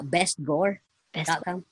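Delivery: each word spelled out slowly; slow, clear repeat. Shown as a demonstration. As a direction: repeat it slowly so they catch it. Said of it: "What is it called?".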